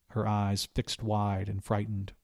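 ordinary delivery

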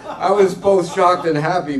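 real laughter breaking through the words; laughing while talking. Real, not acted. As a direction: laugh as you get the words out. Host reacts to banker joke.

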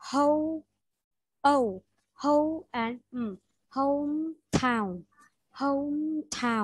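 slow, drawn-out "hometown" as a pronunciation model; sounded out slowly. Shown as a demonstration. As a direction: build up "hometown" from a long "ho", closing on a hummed m. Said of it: "you should pronounce like". (đọc mẫu chậm "hometown", kéo dài "ho" rồi ngậm âm m)

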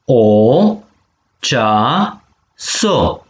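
cea, so held apart with a pause; syllable by syllable. Shown as a demonstration. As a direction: model cea - so for the class to echo. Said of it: "penem vitumen". (pe silabe: cea, so)

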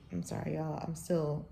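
woozy and drained; groggy, just out of surgery; weak after surgery. Real, not acted. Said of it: "I'm still a little woozy".

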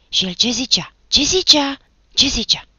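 loud, high, greedy questioning; choked with curiosity. A narrator's reading. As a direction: press for gossip with gleeful urgency. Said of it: "cu glas înnecat de curiozitate și plăcere". (glas înecat de curiozitate și plăcere)

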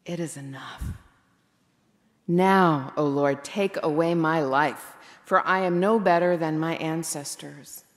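a worn-out prophet's low, resigned prayer; weary. Acted. Preacher voices Elijah begging God for death, weary. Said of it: "you can hear the weariness in his voice".

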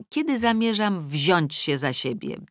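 ordinary delivery, nothing marked

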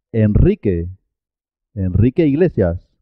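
trilled R after the n in "Enrique"; double R after N. Shown as a demonstration. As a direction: roll "Enrique" as En-rrique. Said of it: "pero suena doble".

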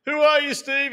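high, loud mock-eager reply; retold eager question. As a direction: ask it high and loud, playing along. Own retold reply to shouting coach.

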